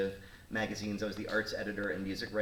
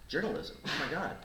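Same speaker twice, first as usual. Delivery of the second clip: higher-pitched surprised question on "Journalism"; astonished echo; 5 semitones higher than usual. Retold or imitated. Old boss hearing about her degree, "Journalism" said in high surprise.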